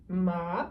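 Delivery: "ma" sliding up like a question; rising second tone. Shown as a demonstration. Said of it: "It's the rising tone".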